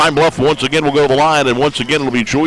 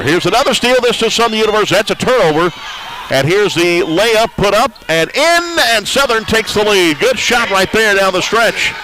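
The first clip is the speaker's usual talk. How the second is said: higher, rising excitement on the steal and the go-ahead layup; excited call; 5 semitones higher than usual. Real, not acted. Commentator calling a steal and go-ahead basket, excited higher pitch. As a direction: let the voice jump up as the home team takes the lead.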